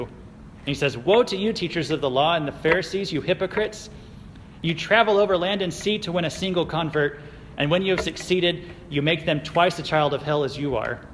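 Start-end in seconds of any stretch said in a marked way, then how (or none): 1.0-11.0 quoted rebuke, a touch raised; preacher voicing a stern scolding; mildly angry rebuke. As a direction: read it as a restrained denunciation. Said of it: "he's probably yelling or screaming here".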